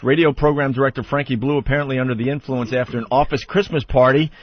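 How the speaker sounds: newspaper reading. Shown as a demonstration. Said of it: "reads as follows".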